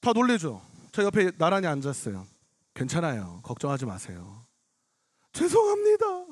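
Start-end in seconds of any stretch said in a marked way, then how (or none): 2.7-4.5 low, soft reassurance; retold consoling. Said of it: "막 위로를 해주고 있었어요". 5.3-6.2 very high mock-crying whine; imitated tearful apology. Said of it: "울기 시작하는 거예요".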